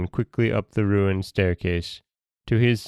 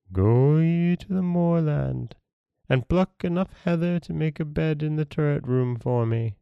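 phantom command; 8 semitones higher than usual. A narrator's reading. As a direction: give the order like a drifting phantom. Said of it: "said the phantom-like figure".

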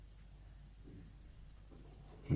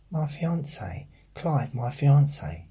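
high, louder mock of a smug coworker on "fiancé"; 8 semitones higher, 8 dB louder than usual. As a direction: show off the word like a smug colleague. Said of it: "I used to work with someone that".

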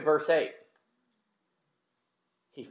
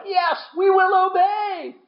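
much higher, slow called-out promise; mock solemn vow; slower than usual. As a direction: slowly cry out a grand promise. People swearing obedience, acted.

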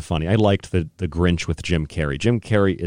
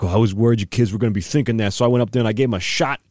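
mock Fauci; 3 semitones higher than usual. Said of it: "you listen to how he says it".

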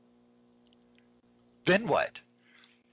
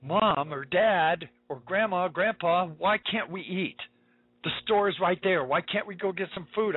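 put-on higher, slow pleading child voice; a parent's voicing of a hungry child's plea; 4 semitones higher than usual. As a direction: beg like a teary little kid. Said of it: "tears welling up ... saying".

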